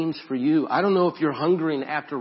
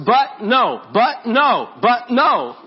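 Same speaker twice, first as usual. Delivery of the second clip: loud, high pleading "but no"; pleading grandpa; 7 semitones higher, 8 dB louder, much slower than usual. Retold or imitated. Grandpa begging mom to let him hold the boy, loud and high. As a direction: beg like a desperate grandpa.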